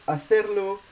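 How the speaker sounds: "hacerlo" with stress on the E, ha-CER-lo; Spanish word demo. Shown as a demonstration. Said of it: "it's the E that, uh, accentuated".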